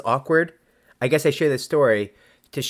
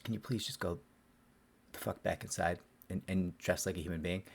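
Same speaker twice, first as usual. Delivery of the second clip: hushed exasperated plea; 3 semitones lower, 13 dB quieter than usual. Retold or imitated. His plea to the client, retold.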